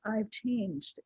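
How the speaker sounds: quiet reflective repeat of "I've changed"; soft echo. Real, not acted. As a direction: let "I've changed" fall away quietly. Repeats it softly to herself.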